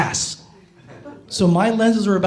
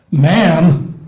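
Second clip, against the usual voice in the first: "Ma'am" pushed down a notch, lower and firmer; 5 dB louder than usual. Retold or imitated. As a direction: drop the voice to sound manlier. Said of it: "take it down a notch".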